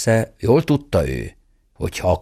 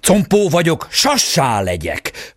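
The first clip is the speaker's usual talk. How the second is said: shrieking call; 7 semitones higher, slower than usual. A narrator's reading. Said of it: "rikkantott a sárkány király".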